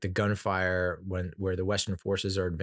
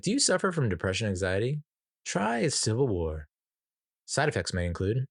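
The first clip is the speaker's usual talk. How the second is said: mock drug commercial announcer; pharma ad voice. Mocking the movie as a pharmaceutical ad, announcer style. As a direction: sell it like a TV drug ad, lightly. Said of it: "like one of those pharmaceutical ads".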